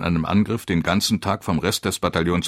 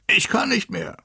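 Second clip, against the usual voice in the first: high, strained cry of breakdown; panicked shout. A narrator's reading. Terrified lieutenant giving up before his commander, high desperate shout. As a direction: yell it like a man who has cracked. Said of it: "schrie er".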